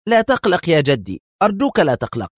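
calm grandpa down, tired of it; weary reassurance. A narrator's reading. Grandson reassuring his fretting grandfather. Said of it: "زفر الشاب في ضجر".

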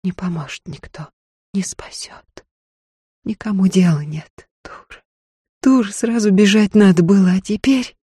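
desperate whispered thoughts; girl's panicked thoughts, whispered; inner whisper. A narrator's reading. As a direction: whisper it to yourself in despair. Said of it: "В голове билось одно".

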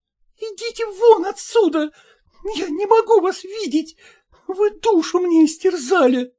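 wife to husband through the door, tearful and upset; tearful outburst. Acted. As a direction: send him away in tears. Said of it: "вся в слезах".

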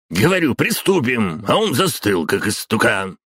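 high, loud scolding; shouting at assistant. A narrator's reading. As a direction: snap at him, high and loud. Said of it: "прикрикнул на ассистента старик".

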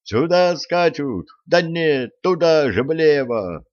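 high frantic shout. Acted. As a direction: call out the danger urgently. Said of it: "в голос закричал Львовод".

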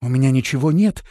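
high, loud pleading call; shouted offer. A narrator's reading. Trapped woman offering help in exchange, shouted plea. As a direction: shout a bargain up to the rescuers. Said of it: "крикнула Биота".

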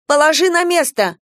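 high, loud order to drop the knife; urgent cry. A narrator's reading. Girl shouts at brother to drop the knife, loud. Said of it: "воскликнула я".

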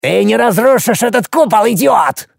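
high, creaky shriek of spite; shrieking dwarf. A narrator's reading. Dwarf Hopus shrieks at Alex from under his dome, high and creaky. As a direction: squeal the insult. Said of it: "взвизгнул карлик".

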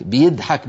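الضحك with a plain light d in place of ض; Egyptian d. Shown as a demonstration. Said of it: "بالدال الخالصة". (الضحك بدال مرققة مصرية)

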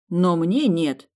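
slow, loud and indignant; indignant exclamation. A narrator's reading. Heroine refusing the prince who wants to guard her, slow indignant outburst. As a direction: stretch each word out in outrage. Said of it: "воскликнула возмущённо".

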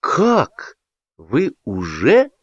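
sudden high gasp of surprise; a startled exclamation; exclaiming. A narrator's reading. Inga astonished at the engagement news. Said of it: "воскликнула Инга".

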